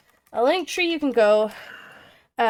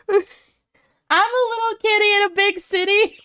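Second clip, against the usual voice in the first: cute kitty voice; 8 semitones higher, 3 dB louder than usual. Acted. Playful cute self-voicing.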